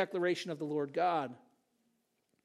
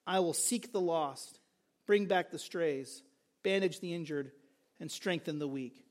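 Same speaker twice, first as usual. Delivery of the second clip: tender care; 3 semitones lower, 4 dB quieter than usual. Acted. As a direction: ease each line out gently, like binding a wound. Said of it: "Note the tender care".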